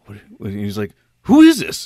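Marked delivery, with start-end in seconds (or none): 1.2-1.9 loud, high-pitched mock outrage; bewildered demand. Man on the phone to unknown prank caller, bewildered shout.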